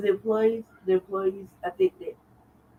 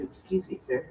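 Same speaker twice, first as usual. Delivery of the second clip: softer, mock-polite address to a stranger; imitating polite formal switch; 5 dB quieter than usual. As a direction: switch into front-desk politeness, lightly imitated. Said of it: "the language switch up".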